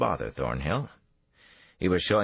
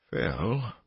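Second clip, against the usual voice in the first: higher, more urgent rising question; asking again; 6 semitones higher than usual. A narrator's reading. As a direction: call after him with growing alarm. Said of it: "Thornhill said again".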